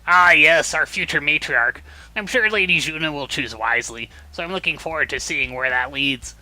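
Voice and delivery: put-on eager nerdy young man; nerd voice. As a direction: sound keen and nerdy. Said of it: "I gotta give him a nerd voice".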